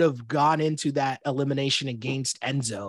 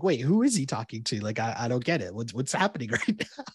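genuinely confused; 4 semitones lower than usual. Retold or imitated. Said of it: "he was actually confused".

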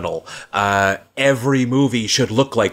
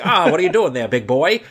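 sultry forties dame, pitched up; playful 1940s screen siren come-on; Tina Fey dame voice; 5 semitones higher, faster than usual. Retold or imitated. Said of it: "Tina Fey doing forties, uh, dame, uh, dame voice".

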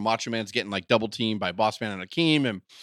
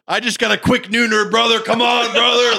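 high, loud, pumped-up wrestler; jazzed up; 9 semitones higher, 7 dB louder than usual. Acted. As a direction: boast to your partner in hammed-up excitement. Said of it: "he's all jazzed up".

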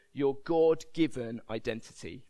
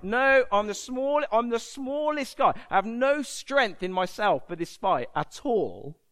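higher-pitched, emphatic protest; insistent protest; 4 semitones higher, 3 dB louder than usual. Acted. Gideon protesting to God that he is nobody, insistent. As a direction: protest your own smallness, pitched up.

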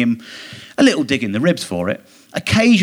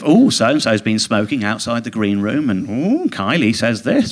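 lightly mock the breathless showbiz gossip; a hint of a gushing gossip writer; mock gossip columnist; 3 semitones lower than usual. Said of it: "it was all this sort of".

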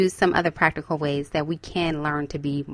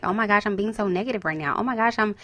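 quick, hushed self-reproach; mock fretting; 5 dB quieter, faster than usual. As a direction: fret at yourself in a light mock panic. Acting out fretting over negative thoughts.

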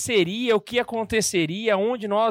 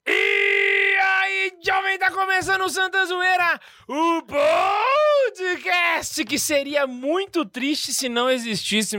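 hype show intro; 10 semitones higher, much slower than usual. Acted. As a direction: open the show like a hyped host. Podcast opening hype intro.

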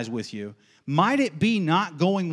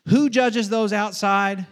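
slow, raised question to the congregation; catechism question; 6 semitones higher, 4 dB louder, slower than usual. Shown as a demonstration. Preacher catechizing the congregation on the passage, catechism question. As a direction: put it high and slow, "outside" held out for an answer. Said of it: "I'm catechizing you".

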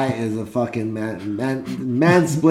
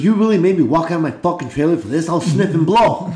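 mock indignant; 3 semitones higher than usual. Acting out the annoyed host's complaint.

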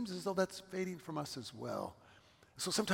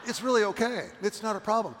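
mock pleading; 8 semitones higher, 11 dB louder than usual. Pleading with cashier about wine.

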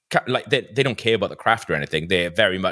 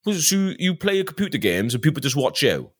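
slightly raised West Wales cameraman voice; West Wales accent; 5 semitones higher than usual. Retold or imitated. Cameraman querying gaming videos, light West Wales accent. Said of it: "very West Wales accent".

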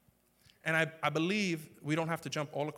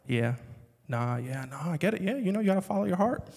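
fake supportive; 3 semitones higher, 5 dB louder than usual. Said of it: "to Fo, I'm like".

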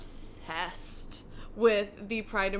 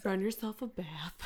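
Delilah voice; 4 dB quieter than usual. Pretend. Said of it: "I'm gonna go Delilah on you".

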